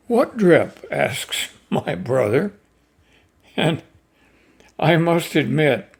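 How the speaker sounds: measured poetry reading with deliberate pauses; lightly performed poem recital, line by line. Acted. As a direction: read the poem out to listeners, weighing each phrase. Reads a poem aloud.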